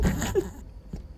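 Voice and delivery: high breathy clown giggle; creepy clown laugh. Acted. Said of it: "C'est quoi ce rire de clown là?".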